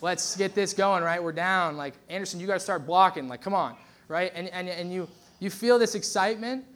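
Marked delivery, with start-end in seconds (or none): 0.0-3.7 half-time coach firing up a losing team, loudish; rally the locker room with a touch of coach bark; Ted Lasso pep talk. Retold or imitated. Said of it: "conjure up some Ted Lasso talk".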